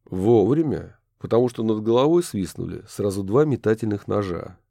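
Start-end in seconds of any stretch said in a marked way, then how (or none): none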